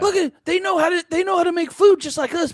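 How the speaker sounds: high-pitched patronizing marvel; mock condescending wonder. East Coast viewers marveling at Southerners, mock condescension. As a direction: coo as if at creatures on display. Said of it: "East Coast people can be like".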